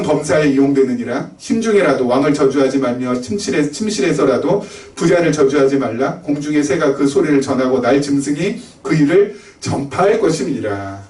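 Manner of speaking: low-pitched, even recitation of verses; scripture reading. Acted. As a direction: read the Bible passage out evenly, pitch settling at the close. Reads scripture verses aloud. (성경 구절을 낮고 고르게 낭독)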